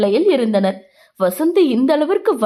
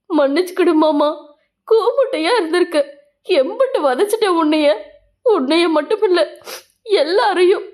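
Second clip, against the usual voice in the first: higher, tearful voice breaking into a sob; begging forgiveness through tears, pitched up; crying apology; 5 semitones higher than usual. Acted. Angai sobbing apology to Lingam.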